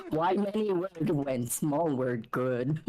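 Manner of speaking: slow, simple brute speech; mock dim-witted brute voice; caveman grammar. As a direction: talk like a blunt caveman. Caveman quote, far timbre.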